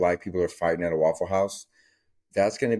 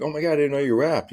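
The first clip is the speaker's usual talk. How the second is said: put-on pitched way up as an impressed girl; high girly voice; 8 semitones higher, 4 dB louder, faster than usual. Cindy gushing to the wannabe rapper, high girly voice. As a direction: squeal it out as the starstruck girl.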